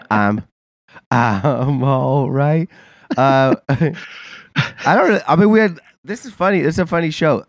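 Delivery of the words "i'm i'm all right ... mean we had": congested nasal voice; talking through a blocked nose; stuffy nose. Real, not acted. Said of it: "I probably sound horrible".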